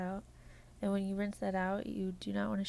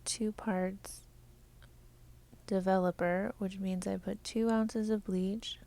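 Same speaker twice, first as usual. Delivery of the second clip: even, measured robotic delivery. Acted. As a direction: talk like a polite robot. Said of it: "I'm done talking like a robot".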